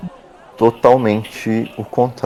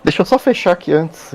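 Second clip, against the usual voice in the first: woman's voice; 10 semitones higher than usual. Acted. GM voices Clara.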